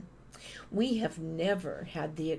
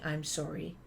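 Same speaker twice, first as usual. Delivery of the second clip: receptionist brush-off; 4 dB quieter than usual. Retold or imitated. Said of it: "they say".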